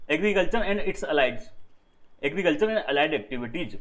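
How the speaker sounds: drawn-out, every word separate; slow dictation. Shown as a demonstration. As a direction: say it slowly for the notebook. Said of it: "teacher dictates term slowly". (बहुत धीरे, शब्द-शब्द लिखवाना)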